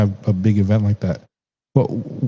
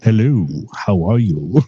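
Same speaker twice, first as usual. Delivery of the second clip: mock British dog voice, swooping tune; British accent. Host voicing own dog, haunted-mansion British accent. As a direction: put on a playful British accent for a talking dog. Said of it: "With, with a British accent".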